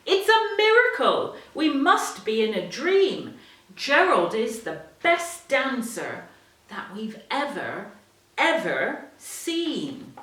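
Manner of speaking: high, loud, amazed crowd shout. Acted. The animals shouting in amazement at Gerald. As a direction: shout it in wonder. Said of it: "They shouted".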